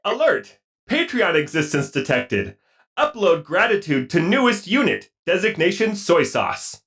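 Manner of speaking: lightly voiced robot; stilted robot announcement. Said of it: "take it away, robot".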